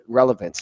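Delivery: "relevance" said as a statement; statement tune. Shown as a demonstration. Explaining that an episode title was no question, statement tune. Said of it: "As a statement".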